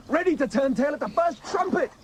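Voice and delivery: rising to an indignant shout; bursting out in outrage; angry shout. Acted. Furious rant about retreating cavalry.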